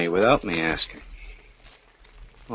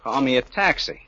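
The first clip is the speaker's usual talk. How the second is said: mock request; 4 semitones higher, 5 dB louder than usual. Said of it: "I would have said".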